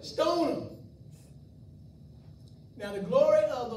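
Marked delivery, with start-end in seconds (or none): 0.0-0.7 mock mob cry. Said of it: "I just wanna go back there and stone".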